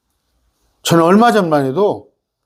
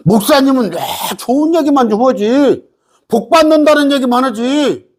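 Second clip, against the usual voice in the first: higher-pitched mock grumbling; imitated complaint; 7 semitones higher than usual. Congregant asking the pastor for only pleasant sermons, imitated complaint.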